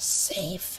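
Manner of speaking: hissing, broken English. Narrator voices her as she spins to face each of you, hissed in broken speech. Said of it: "she's like hisses".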